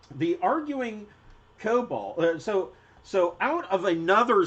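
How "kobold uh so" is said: normal talking voice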